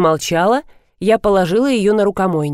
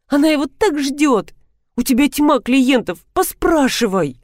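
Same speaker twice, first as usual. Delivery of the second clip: pleading friend; 5 semitones higher than usual. Acted.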